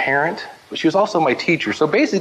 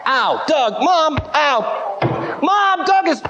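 high, put-on little-kid wail; boy calling mom, pretending his brother hit him; fake-hurt whine; 10 semitones higher, much slower than usual. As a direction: ham up the pain to get brother in trouble. Faking being beaten up.

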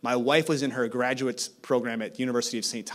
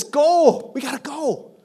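command; 12 semitones higher, 5 dB louder, slower than usual. Acted. Quoting Jesus' command.

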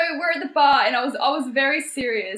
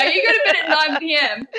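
mock disbelief; 2 semitones higher than usual. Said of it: "I'm like".

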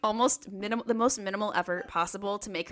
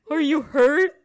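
loud, higher call down the stairs; 6 semitones higher, 11 dB louder, slower than usual. Retold or imitated. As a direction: shout down to someone who fell. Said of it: "she called down the stairs".

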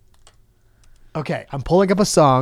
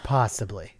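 sheepish whispered admission; 6 semitones lower, 8 dB quieter than usual. Real, not acted. Caught stalling before reading, whispered. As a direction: breathe it out as a guilty whisper.

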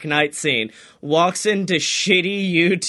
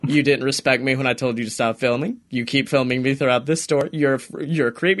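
stern lecture; 6 semitones lower, faster than usual. Retold or imitated. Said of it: "he's like".

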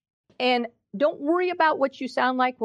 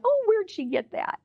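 amused surprise; 11 semitones higher than usual. Retold or imitated. Parents marvelling at toddler.

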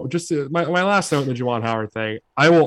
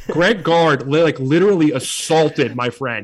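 mock indignant tweet; 4 dB louder than usual. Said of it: "the Desmond Howard tweets where it's like".

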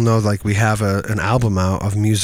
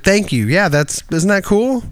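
higher, chirpy thanks; high mock thanks; 9 semitones higher than usual. Imitating how he answers praise, higher. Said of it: "I'm just like".

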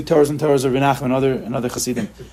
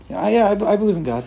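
half-hearted belief; 4 semitones higher than usual. Retold or imitated. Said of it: "they nod their head".

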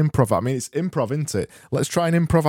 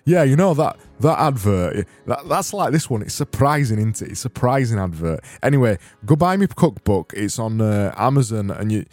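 a hammed-up Yorkshireman selling his cookbook; silly Yorkshire accent. Yorkshireman hosts a mock advert for his cookbook, silly Yorkshire accent. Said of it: "All I'm doing is this silly accent".

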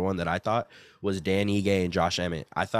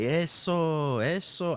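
mock yell; 9 semitones higher, much slower than usual. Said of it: "the corner kept yelling".

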